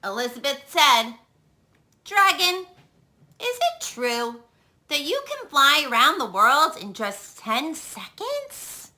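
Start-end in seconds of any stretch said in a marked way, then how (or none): 2.1-8.9 put-on higher, sweet flattering girl voice; butter him up, wide-eyed; flattering princess. Elizabeth voiced in story.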